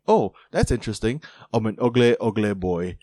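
put-on a light, half-hearted stab at an English footballer's accent; Jamie Tartt accent. Podcaster imitating a TV character's English accent to his cohost, lightly done. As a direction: tries out the accent on "ugly boy", barely shifting his own voice. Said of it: "a cool accent like Jamie Tartt's accent".

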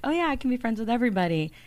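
quick, mock-eager young self; a hint of easygoing youthful eagerness, quick; lightly voiced naive youngster. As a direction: breeze through it like a trusting youngster. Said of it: "when we're young, we're like".

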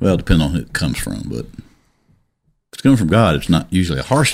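put-on a touch of a hillbilly accent, Appalachian. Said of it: "I just said it like a hillbilly would say it".

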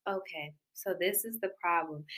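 low, soft, composed explanation; calmed down. Retold or imitated. Imitating the ex after cooling off, calmed down. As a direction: drop the volume and lay it out calmly. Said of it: "calm down and be like".

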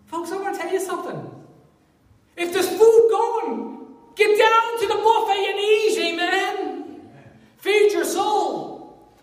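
high, loud, slow preacher cry; full-force preaching. Acted. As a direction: rouse the congregation with a big call.

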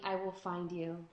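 slow, quiet, menacing; creepy whisper-slow threat. Acted. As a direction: say it like a stalker promise. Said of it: "that little Walking Dead moment".

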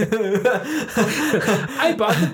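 slow, high hype YouTuber title. Pretend. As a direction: stretch it like a video hook. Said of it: "like, a new Mister Beast video".

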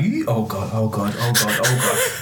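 muttered oh God, mock fretting; hammed-up morning vocal panic. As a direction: fret to yourself about your voice. Panicking voice won't warm up.

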